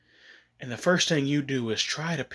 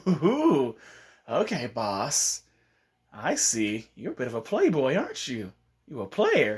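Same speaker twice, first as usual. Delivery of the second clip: sly teasing drawl. Retold or imitated. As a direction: tease him knowingly. Teasing Konohamaru.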